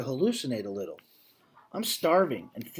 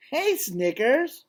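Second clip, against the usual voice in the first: lightly voiced young elephant; 9 semitones higher, 4 dB louder, much slower than usual. Young elephant greets old friend.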